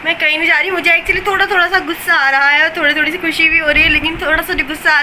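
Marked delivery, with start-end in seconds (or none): 0.0-0.7 fast, tumbling words; rushed fast talk. Real, not acted. Vlogger to viewers, joking about her own speed, rushed fast talk. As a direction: race through it all in a hurry. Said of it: "मैं इतनी जल्दी जल्दी क्यों बोल रही हूँ".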